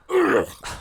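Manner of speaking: sharp, high hacking cough; sudden loud cough. Real, not acted. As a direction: cough out the bone. Coughs on bone in mouth.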